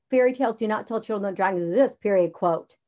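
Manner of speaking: fast dictated wrong version. Shown as a demonstration. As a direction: read it as the mistake. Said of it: "You don't, like".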